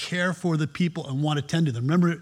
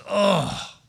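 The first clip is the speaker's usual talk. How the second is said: mock weary Jesus. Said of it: "he woke up in the morning and says".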